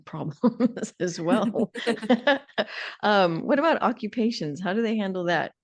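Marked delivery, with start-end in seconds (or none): 0.1-1.7 amused laughing. Real, not acted. Guest reacts to the housing answer, laughing. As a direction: laugh breaking through the words.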